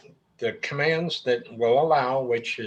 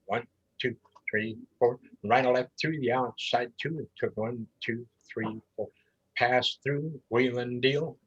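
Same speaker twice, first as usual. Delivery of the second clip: calling in four-beat phrases. Shown as a demonstration. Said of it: "delivering in the four beat phrases".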